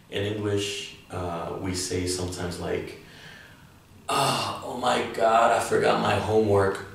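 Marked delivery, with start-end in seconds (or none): 4.1-6.9 panicked. Shown as a demonstration. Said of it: "a negative form of using it".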